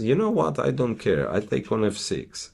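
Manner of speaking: high, breezy don't-care voice; defiant player voice. Pretend. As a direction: voice the player shrugging off danger. Voicing the king player's defiance.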